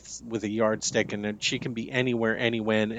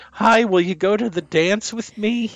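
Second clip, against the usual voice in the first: put-on high teen boy voice; asking someone out; 8 semitones higher, 5 dB louder than usual. Shown as a demonstration. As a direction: pitch it up like a nervous teen. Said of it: "Here, say this".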